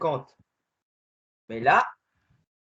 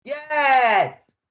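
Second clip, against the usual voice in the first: excited yes; 7 semitones higher, 8 dB louder than usual. Real, not acted. Reaching the new town.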